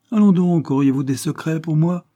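high, loud, scandalised retort; indignant surprise. A narrator's reading. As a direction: pounce on him with outrage. Sister teases about secrets.

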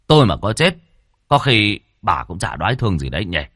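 aggrieved husband's tirade, surging in places; bitter ranting. Acted. Husband accuses wife over the baby, bitter. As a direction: rant with resentment, flaring up.

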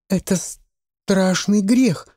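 put-on stubborn boy repeating his warning; stubbornly. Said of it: "повторил мальчишка упрямо".

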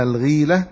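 الغيلة said "al-gheela", ee after gh; الغيلة with kasra, as al-ghīla; kasra on the ghayn. Shown as a demonstration. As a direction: say الغيلة with an ee vowel. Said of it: "بالكسر".

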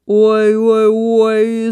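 loud, wailing mock bawl; calf's bawl. A narrator's reading. Licked hedgehog and got pricked, calf's loud storybook bawl. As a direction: wail it out like a hurt calf. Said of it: "заревел телёнок".

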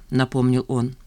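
plain reading voice

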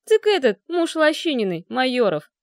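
bare teeth at the name; snarling. Acted. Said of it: "злобно ощерился Голубовский".

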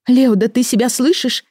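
high, loud, indignant cry; indignant outburst. Acted. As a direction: shout him down in disbelief. Amy argues heatedly with husband. (возмущённый возглас)

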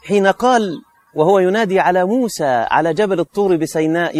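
ordinary talk, nothing marked

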